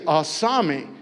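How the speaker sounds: "Asami" as ah-SAH-mee, clear and even; model pronunciation. Shown as a demonstration. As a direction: Lenape "Asami" for students to copy. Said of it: "we say".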